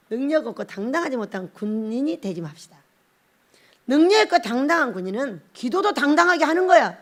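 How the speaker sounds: ordinary talk, nothing marked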